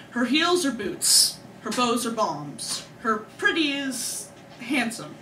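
slow, measured recital of a dark poem; poem reading. Acted. Poet reading her poem to the audience, solemnly. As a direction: read each line like a confession.

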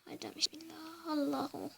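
breathy whispered bismillah; whispered prayer. Real, not acted. Quiet prayer before moving.

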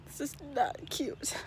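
breathy whisper, slow and drawn out; whispered aside. Real, not acted. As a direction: hush it like a private complaint. Grossed out by own sweat.

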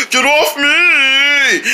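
slow, drawn-out mock yell; yelled seal voice. Kid voices the seal yelling to get riders off. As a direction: stretch it into a whiny yell. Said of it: "he gonna start rolling like".

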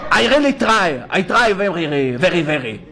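put-on slow, labored Israeli accent English. Rabbi mocking Israeli tourists, in a slow Israeli accent. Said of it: "לא".

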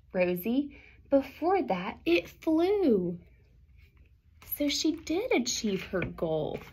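lively picture-book read-aloud; reading to children. A narrator's reading. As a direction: read the rhyming story to the class.

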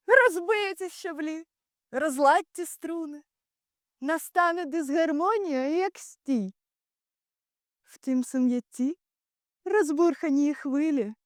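high, heightened stage oratory; impassioned warning. Acted. Ulysses warns the Greek leaders of coming discord, impassioned. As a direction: lift the voice as the disaster builds. Oration rises, foretelling chaos and discord.

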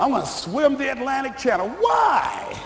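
hammed-up shouted exchange; mock boast and scoff. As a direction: shout the brag, then scoff back. Boast then mocking why.

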